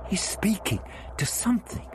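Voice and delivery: Vicky asking Ian, puzzled; young woman exclaiming. A narrator's reading. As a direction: exclaim in bewilderment. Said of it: "Vicky exclaimed".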